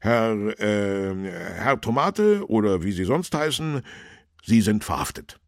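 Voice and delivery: official arrest. A narrator's reading. Policeman arrests Tomate, loud official voice. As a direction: declare the arrest loudly after a halting start.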